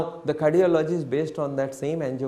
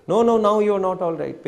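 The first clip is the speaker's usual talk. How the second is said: louder, higher and fast; firm doctor; 6 semitones higher, 7 dB louder, faster than usual. Retold or imitated. Cardiologist loudly overruling the patient's claim to be fine. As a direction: snap back over him quickly.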